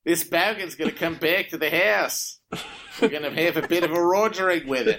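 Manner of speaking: hammed-up bogan Aussie accent; broad put-on Australian twang; mock Australian accent. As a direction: play a crude Aussie bogan in a fake accent. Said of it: "doing an amazing Australian accent".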